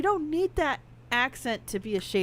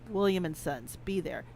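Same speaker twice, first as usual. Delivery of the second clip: low threatening code; 7 semitones lower, 7 dB quieter than usual. Retold or imitated. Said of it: "you could even just say".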